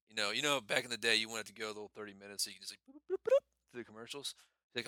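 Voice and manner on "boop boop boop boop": imitated skip-button beeps.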